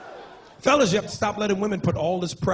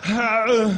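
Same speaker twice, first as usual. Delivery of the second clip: grunt; 2 semitones higher, 3 dB louder than usual. Retold or imitated. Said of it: "he went just like this".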